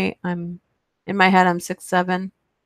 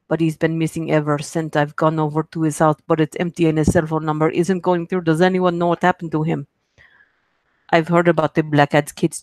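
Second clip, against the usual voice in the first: amateur put-on Russian accent. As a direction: keep attempting a Russian accent through the reading. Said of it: "my Russian accent".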